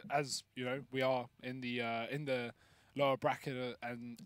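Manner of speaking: coughing, choking after a sip of water. Real, not acted. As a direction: get the words out while choking on water. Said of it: "I'm choking here. Sorry, I just spit my water".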